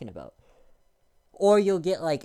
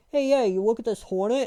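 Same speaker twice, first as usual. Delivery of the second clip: high, louder mock of a know-nothing; mocking dumb voice; 8 semitones higher, 5 dB louder than usual. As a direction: play a clueless person who is sure of himself. Mocking clueless people about animals.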